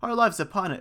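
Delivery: high-pitched earnest protest; crying out. A narrator's reading. Novices protest to the doubting priest, crying out. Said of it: "cried they".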